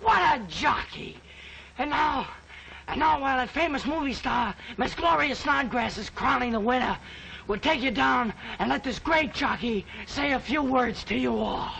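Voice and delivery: rousing mock broadcast wrap-up; race announcer. Boy announcing the imaginary winner to the folks, mock announcer. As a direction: savour the win, then hand over ceremoniously.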